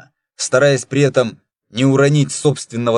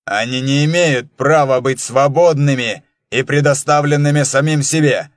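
angry. Acted. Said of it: "злобно произнёс".

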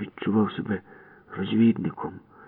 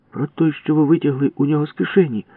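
much higher exclaim; indignant shout; 9 semitones higher, 3 dB louder than usual. Acted. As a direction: accuse him loudly. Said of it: "вигукнула Валька". (обурений вигук)

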